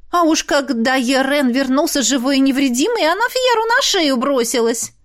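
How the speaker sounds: high, sulky tattling noblewoman; sulky concubine. Acted. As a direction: tattle on the princess, pitched high. Concubine answers emperor.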